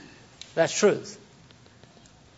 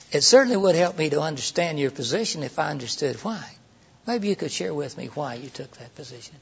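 soft, unthreatening inquiry; gentle question; 3 semitones lower, 5 dB quieter than usual. Shown as a demonstration. To a co-worker, a softer non-threatening question. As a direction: ask kindly, seeking his motive. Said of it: "See, that was a lot less threatening".

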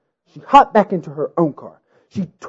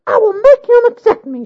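high defiant shout to heaven; 4 dB louder than usual. A narrator's reading. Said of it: "shouted to the heavens".

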